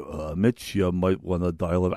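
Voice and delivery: a bad impression drifting toward a cartoon bear; Bernie Sanders. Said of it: "That's more Yogi Bear than Bernie Sanders".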